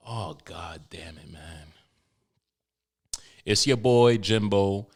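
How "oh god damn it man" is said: hushed, slowed whisper under his breath; breathy exasperated whisper; whispered curse. Real, not acted. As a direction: mutter the curse softly to yourself. Grumbling to himself after intro.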